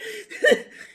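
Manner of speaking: high gleeful laugh; laughing out loud. Real, not acted. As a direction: crack up again. Laughs at his own joke.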